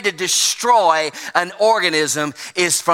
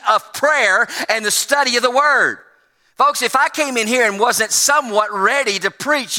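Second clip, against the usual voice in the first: higher-pitched, insistent pulpit delivery; impassioned preaching; 6 semitones higher than usual. Acted. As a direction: preach it with rising urgency, drawing out key words. Preaches at full force.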